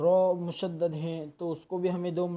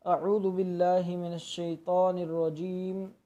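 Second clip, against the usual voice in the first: Quran recitation. Shown as a demonstration. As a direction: recite it carefully, each letter clear. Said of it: "देखिए, अऊज़ु में". (तजवीद के साथ तिलावत)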